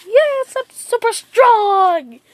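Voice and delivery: mildly hammed-up happy boast, drawn out; super happy. Naruto celebrating his new techniques, mock super happy. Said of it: "he's super happy".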